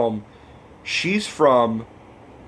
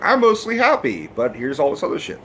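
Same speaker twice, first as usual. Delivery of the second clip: put-on happy girl voice. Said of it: "the girl's like".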